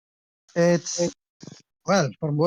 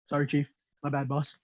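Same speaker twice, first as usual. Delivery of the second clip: meek apology; 4 semitones lower, 6 dB quieter, faster than usual. Acted. Caught dine-and-dasher apologizes to innkeeper.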